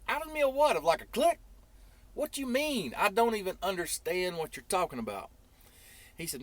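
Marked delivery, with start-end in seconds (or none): 0.1-5.3 much higher and louder, incredulous; retelling his own stunned reaction; shocked disbelief. Retold or imitated. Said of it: "I said".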